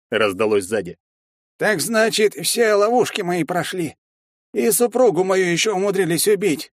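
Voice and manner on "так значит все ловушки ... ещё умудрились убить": villain voice. Acted. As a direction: gloat like a wronged sorcerer. Villain bird-master speaks.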